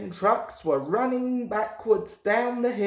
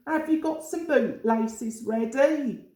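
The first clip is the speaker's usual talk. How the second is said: rude tease; 6 semitones higher than usual. A narrator's reading. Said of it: "laughing rudely".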